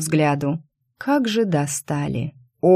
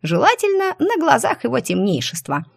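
dreamy squirrel. Acted. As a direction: dreamily savour the idea. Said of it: "мечтательно закончила белка".

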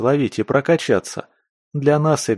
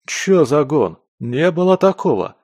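higher, louder outraged denial; indignant protest; 6 semitones higher, 4 dB louder than usual. Acted. Скворец to captors, indignant protest. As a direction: protest the accusation hotly. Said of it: "возмутился Скворец".

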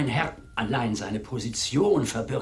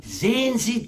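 coaxing flattery; 9 semitones higher, 3 dB louder than usual. Acted. Wooer flatters the spinster.

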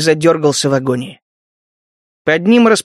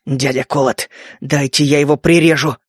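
growling; 3 semitones lower than usual. Acted. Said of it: "прорычал Кейн".

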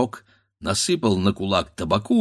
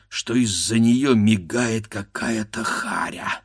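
ordinary delivery

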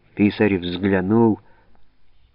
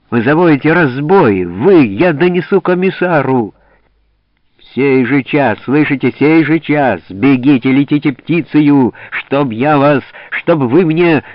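яростный крик; 5 semitones higher, 7 dB louder than usual. Acted. Голова гонит десятских в гневе.

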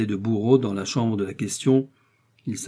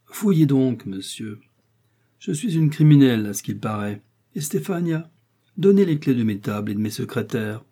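sharp, sarcastic outburst from an offended queen, loud on the first words; indignant queen; 2 semitones higher, 3 dB louder than usual. Acted. Queen defies the chancellor searching her rooms, scornful and loud.

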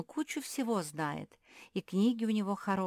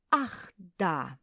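sudden recollection; 2 semitones higher, 5 dB louder than usual. A narrator's reading. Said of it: "спохватился Иминалий".

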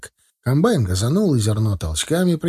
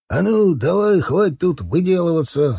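higher, cross command; angered; 6 semitones higher than usual. A narrator's reading. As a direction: snap crossly with lifted pitch. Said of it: "разозлился Николаенко". (рассерженно, повышенным тоном)

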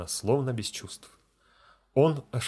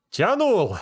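much higher and louder, tearful yet sneering cry; tearful mockery; 10 semitones higher, 6 dB louder than usual. Deacon to the failed feldsher, tearful and mocking. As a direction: wail it while mocking him. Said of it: "плачущим и в то же время насмешливым голосом".

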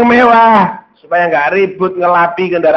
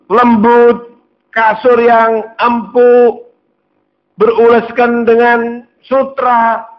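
raised, pleading voice, slowing on the luxuries; pleading protest; 5 semitones higher than usual. Acted. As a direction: plead with the Prophet, higher and stretched. Umar pleads, comparing kings' luxury.

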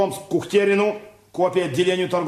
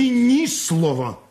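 slow, firm and loud; sharp command; 7 semitones higher, 3 dB louder, slower than usual. Acted. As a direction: shut him up with authority. Boss silences subordinate.

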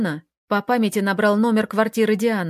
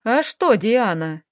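спокойно; slower than usual. Acted. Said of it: "совершенно спокойно спросила её мать".

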